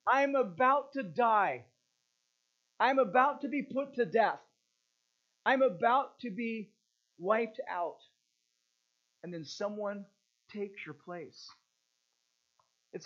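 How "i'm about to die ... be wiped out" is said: desperate urgency. Retold or imitated. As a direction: voice a doomed prisoner's panic, not fully acted. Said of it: "the desperate urgency of the situation".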